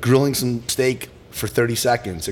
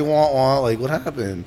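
mournful sad clown whine; 5 semitones higher, 4 dB louder than usual. Retold or imitated. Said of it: "the happy sad clown".

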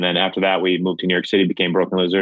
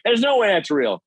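much higher disbelieving cry; can't believe what he sees; disbelief; 11 semitones higher than usual. Retold or imitated. Rival staring at the stapled leg, high disbelief. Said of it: "he's like".

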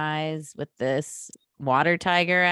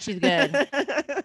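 sweet high voice; 9 semitones higher than usual. Acted. Sweet voice for good phone.

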